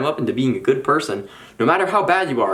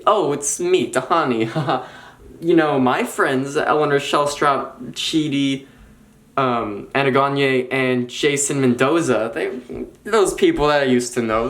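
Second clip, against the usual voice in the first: bragging Tahani. Acted. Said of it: "as if she's bragging about a celebrity".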